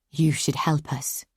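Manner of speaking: slow, strained through clenched teeth; through gritted teeth. Acted. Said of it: "spoken through teeth gritted".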